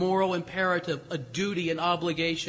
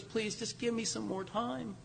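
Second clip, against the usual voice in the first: pleading debtor; 2 semitones higher, 8 dB quieter than usual. Retold or imitated. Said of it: "falls on his knees and says".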